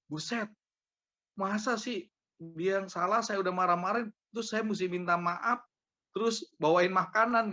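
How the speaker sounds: high, emphatic retold objection; incredulous protest. Man objecting to being told to apologise, incredulous. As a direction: protest as if it's too much to ask.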